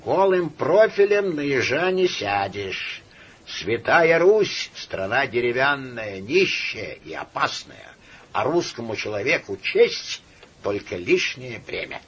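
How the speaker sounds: lightly voiced sneering imp; a hint of a jeering little demon; mocking nightmare voice. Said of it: "глумливо сказал".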